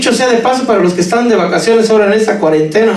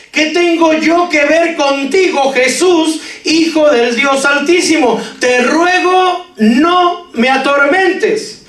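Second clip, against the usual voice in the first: higher, drawn-out plea read from scripture; raised-pitch scripture cry; 6 semitones higher, slower than usual. Acted. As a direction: proclaim the plea higher, without shouting. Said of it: "dijo en alta voz".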